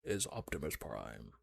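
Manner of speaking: very deep, slow robot hero voice; Optimus Prime voice. Retold or imitated. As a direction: boom it out low and slow.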